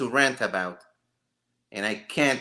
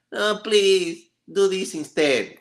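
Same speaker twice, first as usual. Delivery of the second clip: pleading prayer; 7 semitones higher, slower than usual. Retold or imitated. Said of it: "because you're like".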